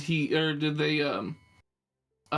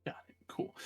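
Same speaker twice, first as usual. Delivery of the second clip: breathy whispered aside; whispered got it; 13 dB quieter than usual. Real, not acted. Quiet acknowledgement at table.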